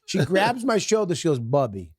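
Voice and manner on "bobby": put-on Russian accent. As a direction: scold sternly in a light Russian accent. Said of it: "she was a Russian superintendent".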